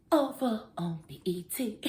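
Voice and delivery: breathy whispered show title; hushed whisper. Shown as a demonstration. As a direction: whisper the name like a secret.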